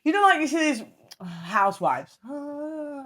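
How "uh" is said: high, soft "uh"; a little high-pitched housewifely sigh; housewife noise. Acted. Imitating an old-school housewife, dreamy noise. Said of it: "making these noises".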